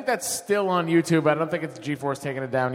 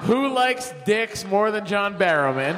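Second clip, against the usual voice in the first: shouting; 4 semitones higher, slower than usual. Retold or imitated. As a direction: yell it out to the room. Retold outburst on live show.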